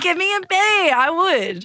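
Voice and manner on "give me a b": imitated cheer. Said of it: "I would be like".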